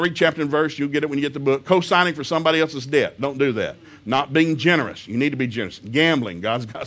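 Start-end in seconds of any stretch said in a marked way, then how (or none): none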